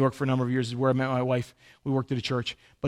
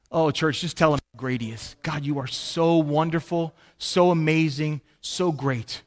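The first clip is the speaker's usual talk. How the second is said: prayer. Real, not acted. Preacher praying to God for the congregation, earnest prayer. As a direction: lead them in unhurried, heartfelt prayer.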